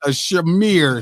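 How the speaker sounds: "smear" said as shuh-MEER; mock pronunciation. Shown as a demonstration. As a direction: stretch "smear" into two syllables, shuh-meer. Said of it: "That's how it's pronounced".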